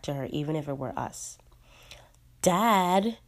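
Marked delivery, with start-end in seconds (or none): 2.4-3.2 sharp angry call; angry shout. Acted. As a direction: snap the name out in anger. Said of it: "Juliet shouts in anger".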